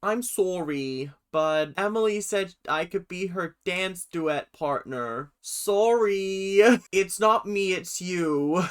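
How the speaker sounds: put-on slow, amateur Canadian accent. Imagining him dropping Michelle, mock Canadian accent. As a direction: attempt a Canadian accent, drawn out. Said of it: "apologies for the Canadian accent".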